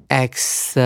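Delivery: X said as ek-suh, ending in schwa; joined syllables. Shown as a demonstration. Teacher joins the sounds for students, phonics demonstration. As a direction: run X into an uh sound. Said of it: "跟后面的I念成呃粘在一起".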